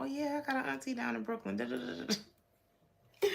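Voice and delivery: high, quick mock New Yorker patter; put-on New York accent. Man bluffing about an auntie in Brooklyn, put-on New York accent. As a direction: imitate someone faking a New York accent, rattling it off. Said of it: "trying to put on that he was from New York".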